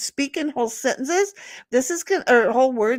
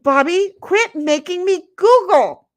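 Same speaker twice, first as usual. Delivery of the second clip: mock exasperated shout; 8 semitones higher, 8 dB louder than usual.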